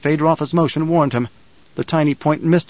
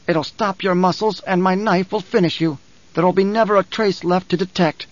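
higher, gloating menace; gloating villain; 4 semitones higher than usual. Acted. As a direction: savour the threat over him. Villain gloating over victim.

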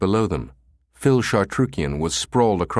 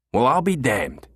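laughed; 5 semitones higher than usual. A narrator's reading. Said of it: "he laughed".

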